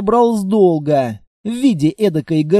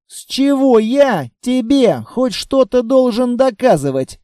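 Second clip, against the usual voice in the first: higher-pitched indignant protest; 5 semitones higher than usual. A narrator's reading. Looter refusing to prove anything, indignant. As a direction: protest as if affronted by the demand. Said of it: "возмутился я".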